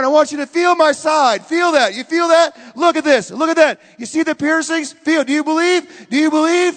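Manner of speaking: very loud, high, short commands; urgent acted summons. Risen Jesus urging the doubter to feel his side, loud and insistent. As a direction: urge him closer at full voice.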